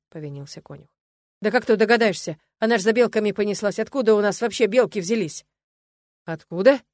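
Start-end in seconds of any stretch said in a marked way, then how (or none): 1.4-5.5 louder, pleading excuses; the servant talks fast to dodge blame; flustered groom. A narrator's reading. Groom excusing himself to the master, loud and flustered. 6.3-6.8 sharp question. A narrator's reading. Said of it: "спросил некромант".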